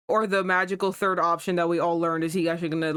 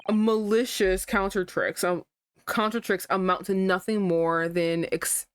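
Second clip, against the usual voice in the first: pompous barrister; slower than usual. Acted. Reads lawyer character lines.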